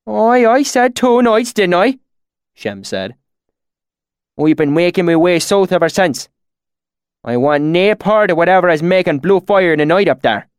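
high, loud country dialect, insistent; testy rustic swineherd. A narrator's reading. Swineherd insisting on what he saw, testy and rustic. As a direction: insist like an affronted bumpkin.

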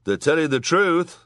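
high, loud assertion; crying out. A narrator's reading. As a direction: cry it out to the court. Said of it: "cried Frank".

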